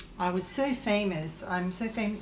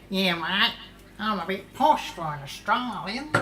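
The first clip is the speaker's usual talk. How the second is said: put-on Australian accent; 3 dB louder than usual. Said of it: "that's not how I speak".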